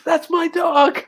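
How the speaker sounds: high-pitched impression of the dog's owner; squeaky mock mistress. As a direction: play the woman as a cartoon. Voicing the mistress.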